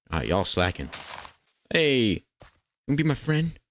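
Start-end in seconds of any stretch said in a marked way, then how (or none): 1.7-3.6 high, cutesy coaxing; coaxing appeal. Pretend. Player asks a creature to be friends, high coaxing. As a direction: coax it in a raised, pleading pitch.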